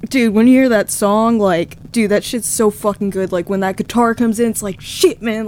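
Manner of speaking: easygoing Appalachian buddy voice; light Appalachian impression of the bassist; Appalachian accent. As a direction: keep the light Virginia twang going. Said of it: "kind of my impression of him".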